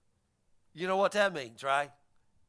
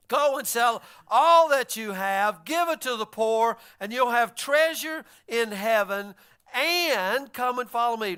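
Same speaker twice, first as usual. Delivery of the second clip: slow and louder, measured; solemn command; 4 dB louder than usual. Acted. Preacher as Jesus, slow and solemn to the rich man. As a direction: say it slowly like a verdict.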